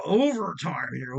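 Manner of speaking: drawn-out sportscaster word; lightly put-on, stretched sports-anchor call; a hint of bad sportscaster voice; Chris Berman impression. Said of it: "that was a bad boomer voice".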